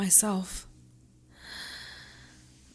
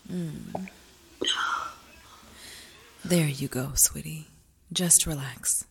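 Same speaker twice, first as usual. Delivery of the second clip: tender aftercare whisper; 8 semitones lower, 6 dB quieter than usual. Acted. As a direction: soothe her gently in a hush.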